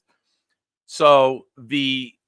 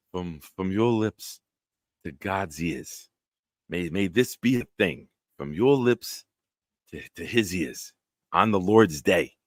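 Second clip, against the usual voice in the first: bad Italian accent; 4 semitones lower than usual. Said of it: "It's not my best Italian accent".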